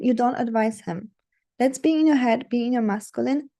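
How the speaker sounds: ordinary talk, nothing marked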